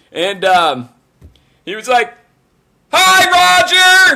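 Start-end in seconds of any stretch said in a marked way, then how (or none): 2.9-4.2 shrill, high-pitched, loud yelling. Speaker retells how a man answered someone across the store: retelling a yell. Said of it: "fucking yelled it".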